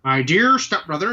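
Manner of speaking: lightly voiced theatrical villain; Juggernaut. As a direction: echo the villain's catchphrase with relish. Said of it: "as he calls Charles".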